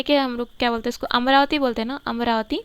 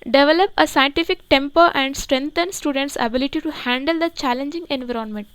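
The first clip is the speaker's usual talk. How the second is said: each English word read out very slowly and evenly; slow dictation reading; much slower than usual. Shown as a demonstration. Teacher reads the headline to the class, very slow dictation pace. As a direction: read it slowly so students can write it down.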